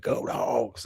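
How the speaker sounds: a hint of a Georgia fan; Georgia Bulldogs fan voice. Recalling an interviewed Georgia fan for the guys, lightly imitated. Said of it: "Georgia fan's comment in that voice".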